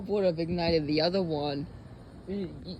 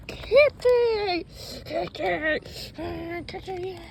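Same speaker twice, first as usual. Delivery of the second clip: calling out; 12 semitones higher, much slower than usual. Real, not acted. Calling the cat.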